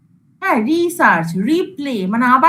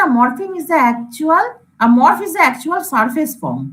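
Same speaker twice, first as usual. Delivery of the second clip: very slow, reading the definition word by word; slow reading aloud; much slower than usual. Shown as a demonstration. Teacher reading a definition to students, very slow. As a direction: read the definition off the slide slowly. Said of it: "এখানে কি বলেছে".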